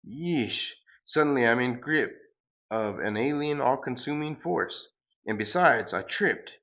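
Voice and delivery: sing-song grand farewell, hammed up; pompous hero. The hero flying off to the moon, light hammed-up hero voice.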